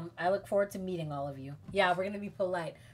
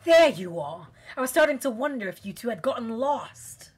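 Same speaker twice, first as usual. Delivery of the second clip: put-on British accent; 4 semitones higher, 7 dB louder than usual. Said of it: "gonna do a British accent for this one".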